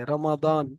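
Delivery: "রমাদান" with a sound between D and Z; Arabic pronunciation. Shown as a demonstration. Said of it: "দ আর জর মাঝখান থেকে বলে". (দ আর জ-এর মাঝখান থেকে "রমাদান")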